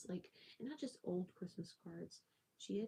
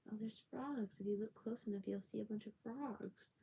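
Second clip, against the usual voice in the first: lightly voiced owner, higher pitch; imitating house owners; 3 semitones higher than usual. Owners showing a curious child the pond, lightly imitated. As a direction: play the owners casually pointing something out, a bit higher. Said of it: "owners of the place said".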